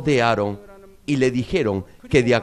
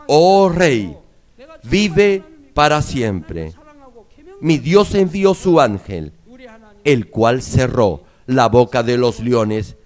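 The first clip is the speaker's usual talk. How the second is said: Daniel proclamando. Acted. Daniel responde al rey.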